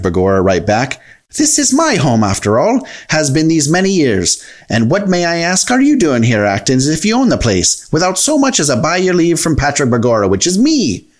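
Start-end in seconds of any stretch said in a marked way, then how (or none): 1.4-11.1 lightly voiced indignant little householder; a touch higher, challenging the intruders; lightly voiced Patrick. Voices a story leprechaun.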